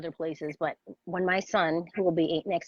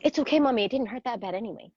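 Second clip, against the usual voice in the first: put-on higher, lightly childlike reassurance; imitating young son; 4 semitones higher, faster than usual. Retelling son comforting his crying mom, lightly childlike. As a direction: sweetly brush it off like a little boy. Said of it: "And he goes".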